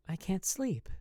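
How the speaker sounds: lightly voiced woman, calm; understated calm reply. A narrator's reading. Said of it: "she said calmly".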